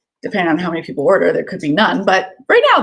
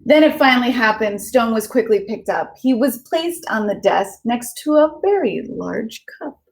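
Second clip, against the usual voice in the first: lilting storybook read-aloud; gentle sing-song story narration for kids; reading to children. Acted. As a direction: read it like a bedtime picture book. Reads picture book aloud.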